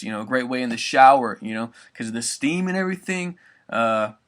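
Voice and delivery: ordinary talk, nothing marked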